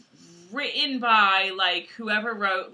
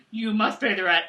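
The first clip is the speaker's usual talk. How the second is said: mock villain making a demand; hammed-up landlord villain; melodrama villain. Melodrama villain and damsel skit.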